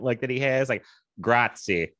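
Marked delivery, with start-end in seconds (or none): 1.2-1.9 put-on Tennessee accent Italian. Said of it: "thick, like, Tennessee accent".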